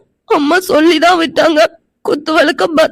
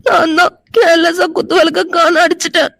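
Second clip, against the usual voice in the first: tearful confession; crying. Acted. Girl crying over the lost lamp. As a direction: weep through the admission. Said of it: "இப்படி போய் அழுதுட்டு இருக்கா".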